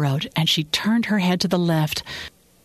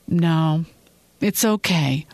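mildly softened reassurance; slower than usual. A narrator's reading. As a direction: let go of the argument gently. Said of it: "His voice softened".

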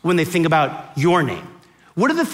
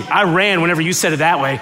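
usual speaking voice

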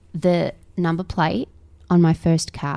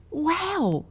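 awed whisper; 11 semitones higher, much slower than usual. Real, not acted. Marvelling at child reading.

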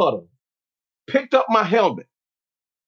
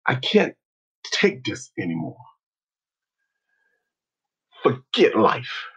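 defeated; 8 semitones lower, 4 dB quieter than usual. Retold or imitated. Humiliated player quits the team, low and defeated. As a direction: give up, word by heavy word.

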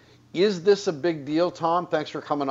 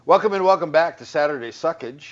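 show intro; 3 semitones higher, 5 dB louder, faster than usual. Real, not acted. Show opener.

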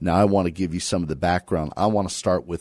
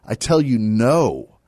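firm refusal, higher on "tell you"; emphatic; 5 semitones higher, 5 dB louder than usual. Acted. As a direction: start high and land firmly on "no". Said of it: "Emphatic, he says it".

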